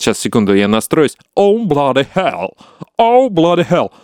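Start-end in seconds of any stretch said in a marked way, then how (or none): 1.4-2.5 slow English accent warm-up. Shown as a demonstration. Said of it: "попытаюсь, э, с английским акцентом". 3.0-3.9 higher, British-sounding take; English accent. Shown as a demonstration. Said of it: "попытаюсь, э, с английским акцентом".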